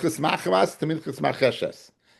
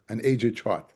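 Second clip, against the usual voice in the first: laughing; 4 semitones lower, 4 dB quieter, slower than usual. Real, not acted. Teacher laughs at old chart.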